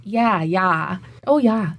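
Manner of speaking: "yeah" as an open "ya"; Minnesota ya. Shown as a demonstration. Linguist listing local sayings, Minnesota "ya". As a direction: Minnesotan agreement, "oh, ya". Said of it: "we say a lot of".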